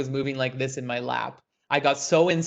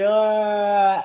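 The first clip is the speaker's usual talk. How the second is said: long, raised exhaled uh; drawn-out voiced breath; breath from the belly; 4 semitones higher, 4 dB louder than usual. Shown as a demonstration. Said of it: "breath comes all the way from the belly".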